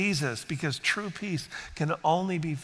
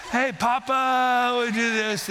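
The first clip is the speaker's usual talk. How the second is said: put-on eager child greeting; 7 semitones higher, 4 dB louder, slower than usual. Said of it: "it's not the".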